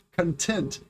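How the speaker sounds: conTENT, second syllable stressed; "content" as cun-TENT. Shown as a demonstration. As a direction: say "content" slowly with the weight on TENT. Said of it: "the second syllable".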